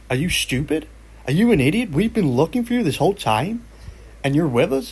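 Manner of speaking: aggravated police. Retold or imitated. Police berate Carl who joined his own search, mock exasperated. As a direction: scold him like an idiot. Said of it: "they get quite aggravated by this".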